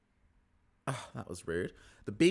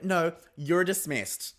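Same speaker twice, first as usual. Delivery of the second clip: higher, slow, drawn-out put-down; imitated haughty dismissal; 8 semitones higher, 4 dB louder, slower than usual. Recapper imitating a housewife cutting off her rival, haughty. Lisa's retort acted out.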